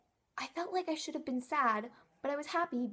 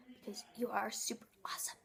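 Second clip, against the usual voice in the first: whispered; 7 dB quieter, faster than usual. Real, not acted. Closing compliment to viewer.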